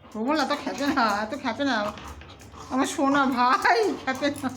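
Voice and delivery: slow, gentle coaxing to calm him. Real, not acted. Mother calming her angry pet, slow and gentle. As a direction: soothe him down slowly and gently.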